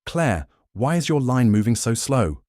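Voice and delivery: loud, sharp, high bark; barking supervisor. A narrator's reading. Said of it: "she barked".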